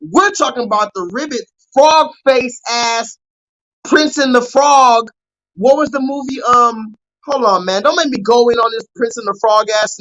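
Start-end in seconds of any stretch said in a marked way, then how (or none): 1.7-5.1 slow, loud, every word stretched; drawn-out taunt. Real, not acted. Streamer roasting actor over frog face: slow loud drawn-out taunt. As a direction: drag out the insult loudly.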